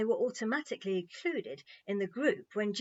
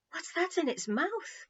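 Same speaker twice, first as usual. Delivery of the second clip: gasp; 10 semitones higher than usual. A narrator's reading. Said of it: "gasped Tanny".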